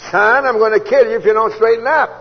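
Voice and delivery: high booming voice of God; loud, stern warning from above; God's voice. Retold or imitated. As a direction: thunder it down like the Almighty. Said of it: "I know the difference between a voice and an impression".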